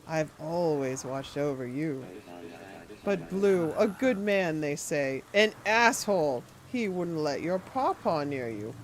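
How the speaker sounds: lightly voiced sinister old man, syrupy; a hint of a creepy gentleman. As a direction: purr it like a courteous creep. Voicing creepy NPC.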